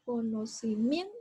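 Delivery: Conocimiento sounded out, voice lifted on "mien"; stress on Conocimiento's MIEN. Shown as a demonstration. Teacher showing pupils the strongest syllable of Conocimiento, stressed "mien". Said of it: "Dónde pronuncio la mayor fuerza de voz".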